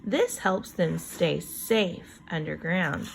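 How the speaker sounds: put-on slow, clear read-aloud for kids; reading to children. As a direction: read each word out slowly for young listeners. Teacher reads book text slowly.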